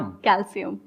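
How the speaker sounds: "कैल्शियम" softly as kal-sium; "s" pronunciation. Shown as a demonstration. Confirming the correct word, s sound. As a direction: say "कैल्शियम" with s instead of sh. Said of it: "sir, नहीं होता ये".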